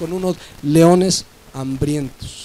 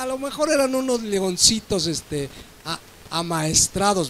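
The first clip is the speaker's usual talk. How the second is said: mock doubter; 4 dB quieter than usual. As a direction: scoff like a doubting listener. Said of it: "Yo sé que alguno dirá".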